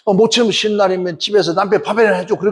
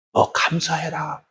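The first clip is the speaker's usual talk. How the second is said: slow, softer voice of God; God's gentle command; 5 dB quieter, much slower than usual. Retold or imitated. God speaking to the praying wife, slow and soft. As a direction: lay it down slowly and softly, like a voice from within.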